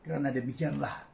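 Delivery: measured poetry reading with long pauses; poem recitation. Acted. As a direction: recite line by line, letting phrase endings fall. Poet recites own poem. (deklamasi sajak yang tenang)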